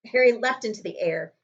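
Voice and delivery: ordinary delivery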